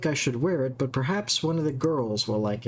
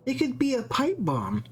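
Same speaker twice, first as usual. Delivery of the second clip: mock alarm; 9 semitones higher than usual. Mock-panicked bomb theory.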